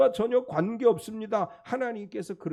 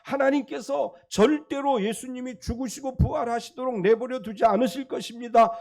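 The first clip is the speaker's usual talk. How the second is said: higher, rising insistent protest; Peter protesting; 3 semitones higher than usual. Retold or imitated. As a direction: disciple objecting to his teacher, urgent raised plea. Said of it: "베드로가 예수님을 붙들고 항변합니다".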